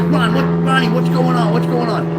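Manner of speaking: high, loud, urgent as he pulls him off; alarmed retold shout. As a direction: call out to break up the fight. Bobby grabs him mid-fight.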